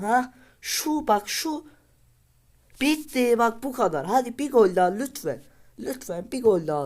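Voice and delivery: very high, loud, pleading squeal; excited shriek. Real, not acted. Gamer shrieking and begging for another goal.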